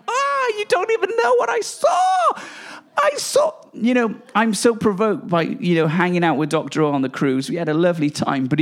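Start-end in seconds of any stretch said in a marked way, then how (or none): 0.1-3.5 much higher, overwhelmed cry of awe; ecstatic shout. Real, not acted. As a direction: burst out as if seeing heaven. Overcome by a vision.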